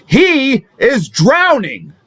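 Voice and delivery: impassioned oratory. Acted. Defense lawyer telling the jury the opponent is going under, impassioned. Closing argument builds to climax.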